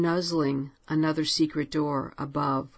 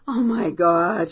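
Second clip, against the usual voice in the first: slow, louder shout of relief and fright; 6 dB louder than usual. Acted. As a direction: shout it out, heart still pounding. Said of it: "shouted Clara".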